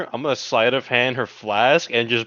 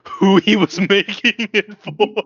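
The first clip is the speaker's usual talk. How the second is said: laughing; 7 semitones higher, 3 dB louder, slower than usual. Real, not acted. Teasing about the coffee gift.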